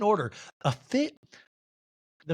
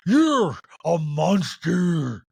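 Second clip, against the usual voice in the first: mock outrage; 6 dB louder, much slower than usual. Acted quarrel recap.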